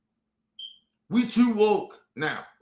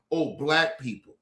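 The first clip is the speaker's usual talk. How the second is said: mock pretend plea; 7 semitones lower than usual. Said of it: "you wanna sit here and pretend".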